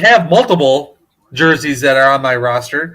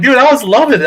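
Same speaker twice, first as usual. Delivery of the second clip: hyped; 7 semitones higher, faster than usual. Retold or imitated. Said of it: "I'm like".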